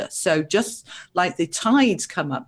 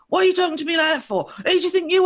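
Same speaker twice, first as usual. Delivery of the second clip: fast, higher, indignant snap back; angry retort; 11 semitones higher, much faster than usual. Retold or imitated. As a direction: fire it back as if insulted, quickly. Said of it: "now I am really reacting back".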